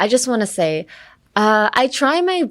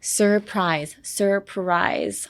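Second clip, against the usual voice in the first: whispered demo; 5 dB quieter, much slower than usual. Shown as a demonstration. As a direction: whisper "surprise" slowly with both R's. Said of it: "the R sound is very hard".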